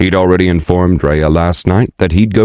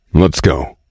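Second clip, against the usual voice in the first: disguised voice, deeper and scratchy; a gruff grown man's voice. Acted. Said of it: "Shorin's voice grew deeper and scratchy".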